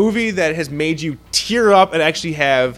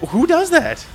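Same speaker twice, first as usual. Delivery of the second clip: laughing; 13 semitones higher, slower than usual. Real, not acted. Baffled over sad movie.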